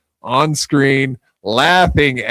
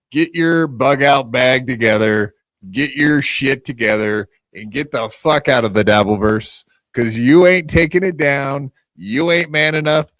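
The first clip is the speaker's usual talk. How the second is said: angry rant; 3 dB louder than usual. Real, not acted. Host ranting at rival Mersh.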